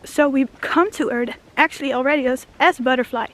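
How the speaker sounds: winded, breathy delivery; talking out of breath. Real, not acted. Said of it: "I'm so out of breath".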